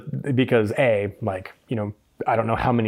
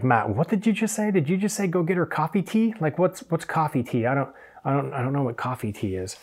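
lightly voiced baffled questioning, starting higher; puzzled assistant; 3 semitones higher, 5 dB quieter than usual. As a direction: imitate an assistant querying a garbled order, fading softer. Voices a puzzled assistant querying him.

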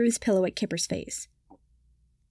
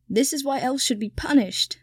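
a mild elf wail; 3 semitones higher than usual. A narrator's reading. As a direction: lament it, lightly wailed. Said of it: "Kipper wailed".

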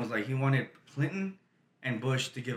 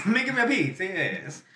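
mock Italian; 3 semitones higher than usual. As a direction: echo it as a pretend Italian. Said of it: "We should be like Italians".

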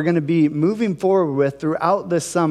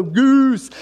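crowd call; 6 semitones higher, 4 dB louder than usual. Retold or imitated. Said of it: "everyone would go".

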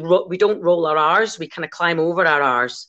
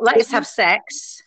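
slow and deliberate; 4 semitones higher, much slower than usual. Shown as a demonstration. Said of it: "I've got".

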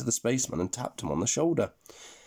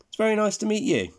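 gentlemanly spaceman; 12 semitones higher, 5 dB louder, faster than usual. Acted. Neil greets Tom.

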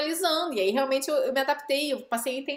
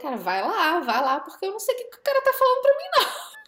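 marido sem dar conta; 8 semitones higher, 4 dB louder than usual. Retold or imitated. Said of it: "ele não conseguiu, não deu conta".

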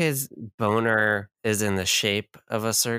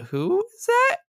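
high hoots of who, like owls; mock crowd hooting who as she descends. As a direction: hoot who, who like an owl. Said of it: "people are just like".

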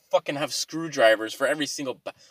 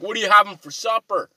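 mock question; 6 semitones higher, 5 dB louder than usual. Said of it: "you're like".

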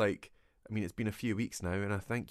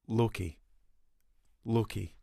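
Scottish accent; slower than usual. Shown as a demonstration. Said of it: "Loki would have been better in a Scottish accent".

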